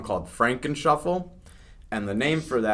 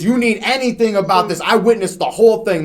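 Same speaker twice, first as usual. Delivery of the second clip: higher, louder prim witness; busybody lady voice; 9 semitones higher, 9 dB louder than usual. Retold or imitated. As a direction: reassure the band officiously. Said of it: "She goes".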